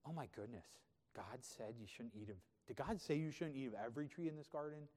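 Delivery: mock disbelief, from hushed to a lifted question. Shown as a demonstration. Preacher acting Satan's question to Eve, mocking. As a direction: scoff in derogatory disbelief. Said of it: "mocking, derogatory".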